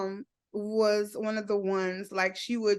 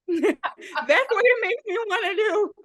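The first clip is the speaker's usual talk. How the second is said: laughing; 9 semitones higher than usual. Real, not acted. Laughing through the words.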